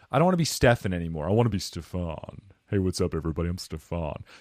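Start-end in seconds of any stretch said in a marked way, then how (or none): 1.3-4.2 polished, upgraded, improved podcast-style voice. Showing how a better-funded voice would sound: better-sounding voice. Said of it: "doesn't that sound better?".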